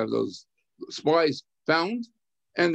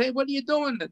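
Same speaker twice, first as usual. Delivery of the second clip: retold scream; 8 semitones higher than usual. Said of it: "screamed out".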